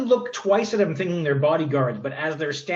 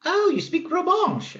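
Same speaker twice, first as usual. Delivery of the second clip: lady's voice; 14 semitones higher than usual. Acted. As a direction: gush with genteel surprise. GM voices Lady Victoria surprised.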